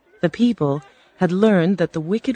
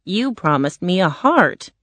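Tin Man. Acted. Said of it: "said the Tin Man".

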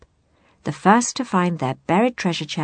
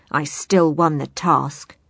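sneering; 3 semitones lower, slower than usual. Acted. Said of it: "sneered the ungrateful Blackheart".

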